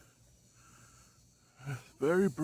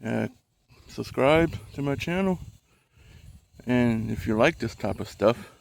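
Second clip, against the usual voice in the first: heavy breathing. Real, not acted. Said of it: "Sorry for the heavy breathing".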